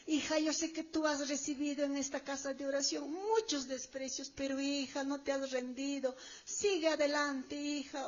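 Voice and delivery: merciful. Acted. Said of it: "le está diciendo con una misericordia".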